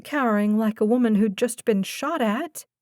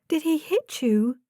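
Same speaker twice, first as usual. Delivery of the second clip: much higher, worried question; voice pitching high; 6 semitones higher than usual. Acted. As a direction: voice climbing out of control. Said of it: "Her voice pitched high against her will".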